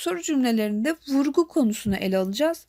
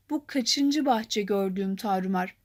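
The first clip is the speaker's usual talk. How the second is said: slow, lower recital with kaçıncı leaned on; stress on kaçıncı; 5 semitones lower, slower than usual. Shown as a demonstration. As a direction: read it slowly, weight on kaçıncı. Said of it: "Kaçıncı kelimesinde vurgu var".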